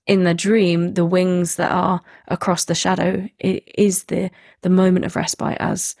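distorted, wobbling call line; glitchy warbling connection; wobbly warbling call audio. Real, not acted. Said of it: "your sound is distorting".

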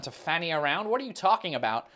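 puzzled echo, rising on "around"; baffled American. Acted. Americans not understanding the phrase, baffled question. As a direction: query "To fanny around" as if never heard before. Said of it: "even Americans wouldn't really understand".

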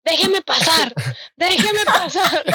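high, drawn-out begging; mock desperate pleading. Student fighting Protección Civil to get through, hammed-up pleading. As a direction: plead theatrically, stretching the second plea longer. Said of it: "peleándose con los de Protección Civil".

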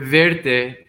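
verte said as Spanish VER-te; verte, slowly and clearly in Spanish; pronouncing a word. Shown as a demonstration. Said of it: "so this first word".

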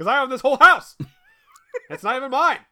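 loud, high, whiny protest; hammed-up outrage; mock indignant yell. Guest yelling at someone else's child about a house, loud and whiny.

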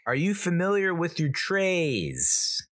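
mock sarcastic retort. Mocking flight attendant spiel.

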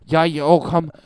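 Irish-tinged mock Nova Scotia accent. Host imitating seaside Nova Scotians, Irish-esque accent. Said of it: "it is kind of Irish-esque".

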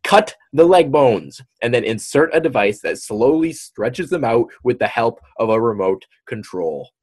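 emphatic report, punching the grisly details; news read-aloud. Acted. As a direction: read the news item out with dramatic stress. Reads news story aloud.

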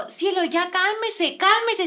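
slow, high soothing plea; pleading husband. Retold or imitated. Man begging cielo to calm down, imitated pleading. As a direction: imitate a man urging his wife down. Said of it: "Me acuerdo mucho que le decía así".

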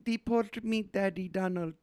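high, limp, bored wife voice; half-hearted Melania. Acted. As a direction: say it with zero enthusiasm, high. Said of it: "Melania half-heartedly said".

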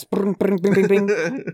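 high sing-song ring ring; phone ringing. Pretend. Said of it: "Hot off the press".

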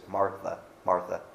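Martha, Martha said softly and tenderly, a patient call; gentle Jesus tone. Shown as a demonstration. Jesus gently calling worried, busy Martha, soft and tender. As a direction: call her name gently, like a loving friend. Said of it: "I have to wonder what the tone of voice is".

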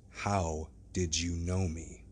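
slow, low sinister question; menacing, drawn-out question; Hyde's voice. Acted. Hyde repeats the question, menacing.

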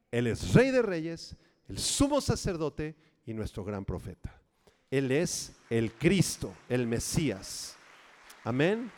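preaching proclamation. Real, not acted. Pastor proclaims Christ's titles.

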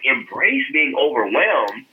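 slow, puzzled echo of "Embrace being overwhelmed?"; incredulous repeat. Retold or imitated. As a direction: drag out "Embrace being overwhelmed?" as if he can't believe it. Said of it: "I was just like".

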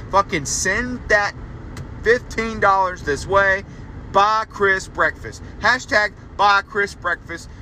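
slow, deliberate hashtag pitch; slow emphatic plea. Real, not acted. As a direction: spell the ask out slowly like a slogan. Begging listeners for money.

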